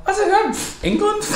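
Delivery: high, laughing guess; high-pitched questioning guess; unsure guess. Real, not acted. Guessing where the other is from, high and unsure.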